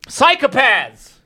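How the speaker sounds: high, slow shouted catchphrase; mock outraged shout. Parody host yelling at his critics, mock outraged shout. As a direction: drag out the outrage, hammed-up.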